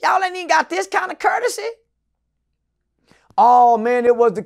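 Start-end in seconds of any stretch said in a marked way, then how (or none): 0.0-1.7 retold fussing. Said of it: "I call fussing and cussing".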